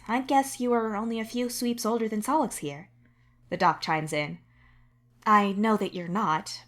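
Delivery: the doctor giving measured, even advice. Acted. The doctor to the patient, calmly clearing them. The doc voiced again.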